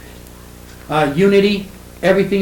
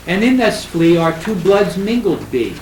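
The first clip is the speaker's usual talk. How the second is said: higher, slow reading of verse; poetry recitation; 4 semitones higher, 3 dB louder than usual. Shown as a demonstration. Lecturer quotes The Flea to the class, reciting. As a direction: declaim the line of verse, drawn out.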